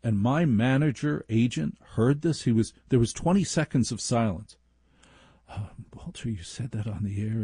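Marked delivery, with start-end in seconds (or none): 5.5-7.4 put-on California accent. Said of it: "in his California accent".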